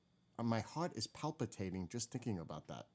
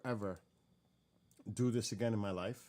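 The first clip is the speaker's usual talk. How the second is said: emphatic vow; 3 semitones higher, 9 dB louder than usual. Real, not acted. Vowing never to repeat it.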